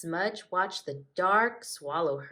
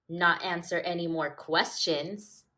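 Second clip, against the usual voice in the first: rude; 5 dB louder than usual. Acted. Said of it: "said Smudge rudely".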